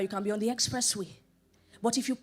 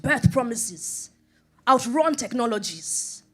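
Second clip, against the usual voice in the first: preaching emphasis; 6 dB louder, slower than usual. Real, not acted. Preaching climax.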